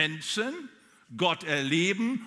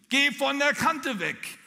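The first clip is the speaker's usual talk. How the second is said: much higher, loud, slow warning; mother's shout; 10 semitones higher, 6 dB louder, slower than usual. Retold or imitated. The mother's voice grows louder with each count, high and slow. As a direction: cry it out high and drawn out. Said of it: "Die rief mir ins Ohr".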